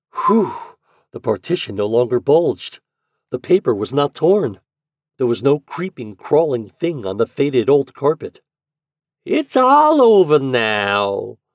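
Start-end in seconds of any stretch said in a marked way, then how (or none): 9.3-11.4 slow, metallic, drawn-out voice. The landlady, speaking from behind him before going back to bed, drawling in a metallic voice. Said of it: "drawled the metallic voice behind him".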